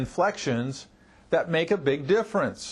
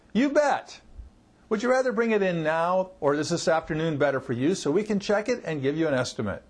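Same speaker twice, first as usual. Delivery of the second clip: assertive. Shown as a demonstration.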